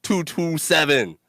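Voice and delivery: slow player-intro voice, each stat spaced out; slow stadium-intro stat read; announcer stat read. Acted. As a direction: read the stats like a sports announcer. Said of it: "I don't know why I said it like that".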